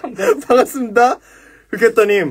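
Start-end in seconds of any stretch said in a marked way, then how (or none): 0.0-1.2 high, giggling through a stiff greeting; laughing greeting. Retold or imitated. Recruit greeting the sparrow senior, laughing. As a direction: try to stay formal but crack up.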